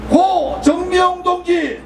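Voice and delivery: slow, drawn-out call of names; solemn roll call. Real, not acted. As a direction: call each name slowly for the crowd to repeat. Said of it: "한 분 한 분 말씀드리겠습니다". (느리게 부르는 추모 호명)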